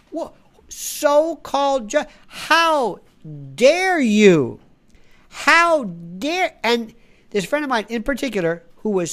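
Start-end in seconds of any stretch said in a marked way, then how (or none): 0.1-6.6 high, loud, shrieking fake outrage; mock outrage. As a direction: mimic a hysterical protester. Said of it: "feigned, fake, synthetic indignation".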